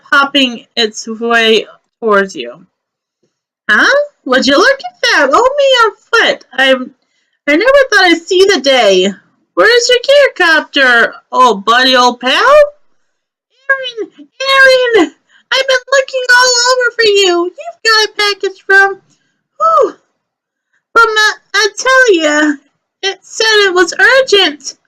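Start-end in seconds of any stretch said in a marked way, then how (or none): 3.7-12.5 a higher, sing-song chatterbox rabbit; chatty Aaron voice. Acted. Chatty rabbit seeing the kids off with a higher sing-song voice. GM voicing Aaron greeting Omi. 13.7-24.8 a higher, hurried, puffing courier voice; breathless Omi. Acted. Out-of-breath courier delivering an urgent package, higher and hurried.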